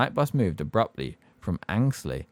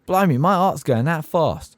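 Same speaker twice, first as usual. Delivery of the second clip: louder, higher, slow shaken cockney; 8 semitones higher, 6 dB louder than usual. Acted. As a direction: catch your breath in fright. Stan shaken after the name.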